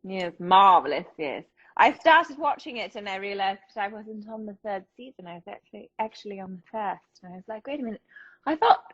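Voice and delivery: lightly regal British voice; British accent. Acted. Host confessing a TV mix-up to co-host, mock queenly British accent. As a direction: play it a little like British royalty. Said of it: "you're sort of Queenie".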